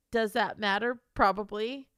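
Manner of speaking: ordinary talk, nothing marked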